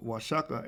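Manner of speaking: Oaxaca said as wah-SHAH-kah, with a sh sound; correct pronunciation. Shown as a demonstration. Teacher showing the class the correct Oaxaca, said wah-SHAH-kah. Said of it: "The correct pronunciation of".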